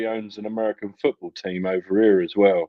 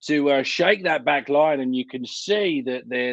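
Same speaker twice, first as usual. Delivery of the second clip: lightly put-on pundit voice, pitched higher; generic co-commentator voice; 4 semitones higher than usual. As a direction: play a mildly hammed-up TV co-commentator. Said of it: "I put on some weird generic co-commentator accent".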